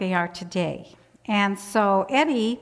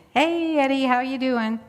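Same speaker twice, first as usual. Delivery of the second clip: higher, lilting retold hail; calling out a greeting; 4 semitones higher than usual. Visitor running in to Eddie, calling out a greeting. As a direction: greet him with a long singing hey.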